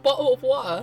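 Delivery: mock British pronunciation of "bottle of water"; British accent. Shown as a demonstration. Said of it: "They can't type out".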